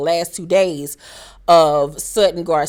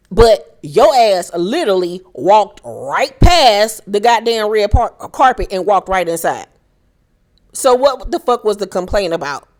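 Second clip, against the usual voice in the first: loud rant; 2 semitones higher, 6 dB louder than usual. Real, not acted. Ranting at Dorit.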